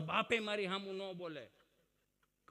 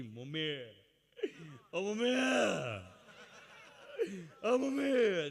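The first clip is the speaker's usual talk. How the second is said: calling mummy; 3 dB louder, slower than usual. Retold or imitated. Child calling mummy in a crowd.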